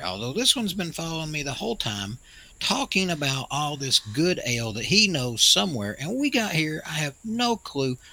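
put-on old prospector. Old man plays grumpy elder.

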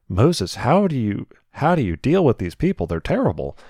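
pleading disbelief. Retold or imitated. Pleading aside to Moses.

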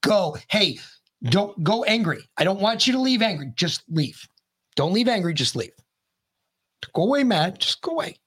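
mock send-off. Mock farewell to departing migrants.

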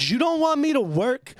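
high, rising indignant question; incredulous challenge. Retold or imitated. Employee challenging his disrespectful boss, incredulous. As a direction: throw it back as a disbelieving question.

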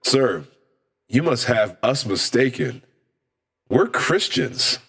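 slow, measured, innocent correction; mock-earnest politeness. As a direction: explain it slowly with straight-faced piety. Mock-pious reply defusing a bar fight.

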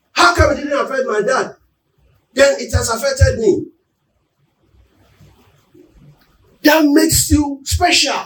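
preaching at full force. Acted. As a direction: press it home to the congregation.

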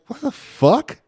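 high-pitched, loud disbelief; hammed-up outraged squawk; exasperated outburst. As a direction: retell it as an indignant, incredulous yell. Replays outrage at man by elevator.

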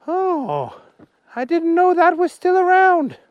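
high, loud little policeman voice; Willie the policeman. Acted. Policeman Willie stopping the humans, high and loud. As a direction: bark orders as a tiny policeman.

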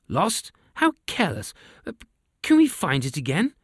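high, sarcastic royal disbelief; sarcastic king. A narrator's reading. King mocks lost army.

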